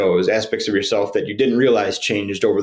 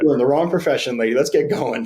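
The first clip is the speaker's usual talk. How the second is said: playful hype; 4 semitones higher than usual. Retold or imitated. Teasing the groom's mother.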